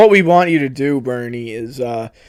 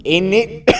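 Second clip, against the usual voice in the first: put-on muddled English-Australian accent; English-Australian mixture. Australian character slips into English slang, mixed English-Australian accent. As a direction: tag it on in mock English-Australian. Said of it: "The English Australian".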